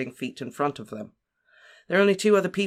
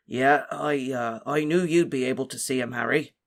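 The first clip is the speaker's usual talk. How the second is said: serious. A narrator's reading. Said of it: "he said seriously".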